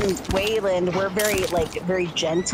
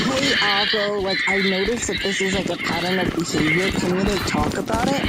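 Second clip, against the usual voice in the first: gentle calling out. Shown as a demonstration. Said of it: "you have to come at it from a".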